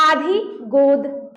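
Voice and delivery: आधी, गोद said slowly, plainly through the mouth; teacher reading examples to the class; slow example words. Shown as a demonstration. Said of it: "जैसे में".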